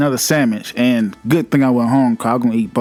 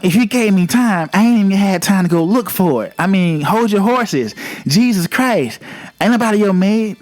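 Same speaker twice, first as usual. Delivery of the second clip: lightly voiced Chris scolding a customer, a bit higher; talking like Chris; 5 semitones higher than usual. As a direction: play the impatient manager Chris without going far. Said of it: "I'm trying to talk like Chris".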